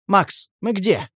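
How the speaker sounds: groggy and stunned, dragging the words; dazed question. A narrator's reading. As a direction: ask like someone just jolted awake. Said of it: "ошалело спросил".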